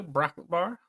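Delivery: "Brocklet Bar" mumbled as if through a mouthful; mangled mouthful. Real, not acted. Co-host naming a snack on the intro, words mangled. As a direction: say "Brocklet Bar" like there's candy stuck in your mouth. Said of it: "sounded like you had a brocklet bar in your mouth".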